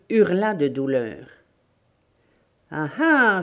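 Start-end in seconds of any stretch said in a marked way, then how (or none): 2.7-3.4 pleased, menacing "ah ah"; gloating. Acted. Bandit to the tortured old woman, gloating. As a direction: gloat like a bandit getting his way.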